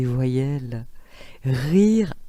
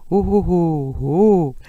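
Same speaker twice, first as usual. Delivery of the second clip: high ho ho; 3 dB louder, slower than usual. Shown as a demonstration. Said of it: "Oui, le haut".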